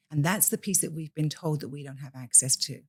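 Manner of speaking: ordinary talk, nothing marked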